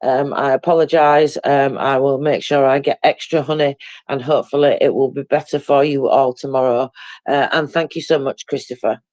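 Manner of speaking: hoarse, croaky throat. Real, not acted. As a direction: talk through a croaky sore throat. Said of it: "putting up with my croaky voice today".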